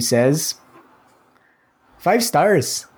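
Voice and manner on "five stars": high-pitched Scottish attempt sliding into Irish; botched Scottish accent, more Irish. Podcaster starts reading a listener review, Scottish accent slipping into Irish. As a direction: try a woman's Scottish accent and land nearer Irish. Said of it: "That was more Irish".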